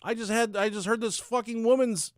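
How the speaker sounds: high, loud storyteller's proclamation; hammed-up, projected narration; dramatic declaiming. Real, not acted. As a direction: proclaim it like an epic tale.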